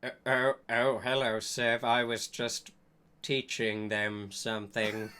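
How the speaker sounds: lying. Acted. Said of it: "He lied".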